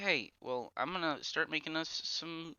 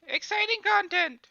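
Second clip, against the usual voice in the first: sarcastic; 15 dB louder, slower than usual. Pretend. Sarcastic high announcer.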